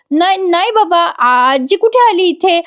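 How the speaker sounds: put-on high, anxious child denying; a frightened little girl covering for grandma; scared child. Ovi scared, lying to her angry father in high voice. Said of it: "ओवी खूप घाबरते आणि म्हणते".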